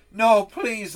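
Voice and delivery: high, loud desperate plea; a child crying out in pain; begging. Acted. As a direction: beg him to stop, near tears. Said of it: "the little rebel begged".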